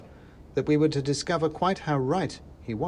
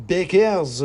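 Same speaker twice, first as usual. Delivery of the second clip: high, very loud squeaky outburst; a tiny agitator boiling over; worked-up mouse; 7 semitones higher, 10 dB louder than usual. Acted. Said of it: "said the mouse in the hat".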